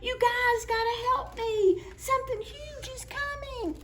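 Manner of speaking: high, panicky plea; scared plea. Acted. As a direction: beg for help in fright. Scared animal pleading.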